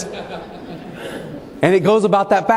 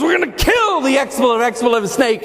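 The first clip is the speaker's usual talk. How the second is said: mock shout; 4 semitones higher than usual. Manager shouting in retold story.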